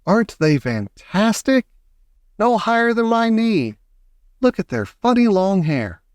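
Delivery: high-pitched marvelling; excited crowd shouting. A narrator's reading. Onlookers marvelling at tiny men, high excited exclamations. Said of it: "everybody started shouting at once".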